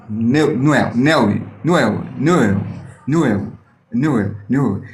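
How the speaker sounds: Noel wavering between "neh-oo" and "noo-EL"; trying out pronunciations. Shown as a demonstration. Teacher puzzling over a silent W, testing Noel as "noo-EL" and "neh-oo". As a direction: test Noel as "noo-EL", then shortened towards "neh-oo". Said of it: "tenho que pronunciar o W de algum jeito".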